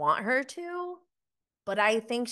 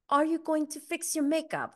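imitating Vida's accent, half-hearted; 8 semitones higher than usual. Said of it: "I can't do her accent".

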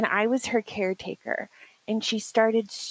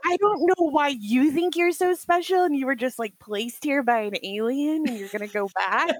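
higher, incredulous mock telling-off; mock scolding; 4 semitones higher than usual. Ancestors scolding her for acting special, mock scolding. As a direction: tell them off in playful disbelief.

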